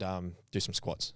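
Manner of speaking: mock whisper of a casual plan; hushed, offhand whisper; whispered aside. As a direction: drop to a quick whisper. Quoting Max casually.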